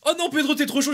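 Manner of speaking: high, loud excited outburst; sudden realisation. Real, not acted. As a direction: shout it out as it clicks.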